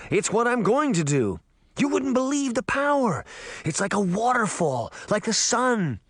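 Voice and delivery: put-on high, power-drunk boasting; elated, voice lifted throughout; exultant. A narrator's reading. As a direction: revel in the new power. Jake exults in new power.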